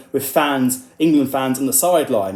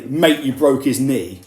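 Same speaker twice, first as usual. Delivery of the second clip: aggressive tone; 5 dB louder, slower than usual. Retold or imitated. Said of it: "that sort of aggressive tone".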